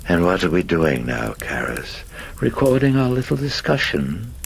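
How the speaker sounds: demon's voice climbing to a high mocking lilt; taunting demon. Demon questions priest about the recorder, mocking and rising high. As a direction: needle with mock curiosity, rising high.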